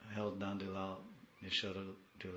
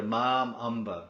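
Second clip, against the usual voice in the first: fervent; 3 semitones higher, 11 dB louder, slower than usual. Shown as a demonstration. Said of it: "My mother".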